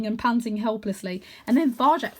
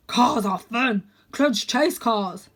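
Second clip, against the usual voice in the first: slow, happy simple dog voice; big dog; 5 dB louder, much slower than usual. A narrator's reading. Dog explaining he chases cars, slow. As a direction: plod through it cheerfully.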